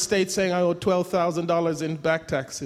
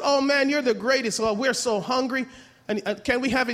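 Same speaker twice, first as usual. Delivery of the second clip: put-on higher eager teenage voice; eager teens; 4 semitones higher than usual. Teenagers thanking dad for brownies, eager. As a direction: gush over the brownies.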